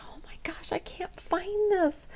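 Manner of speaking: urgent whispered worry, retold; panicked whisper. Alone at night searching for her cream, whispered panic. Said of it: "and I thought".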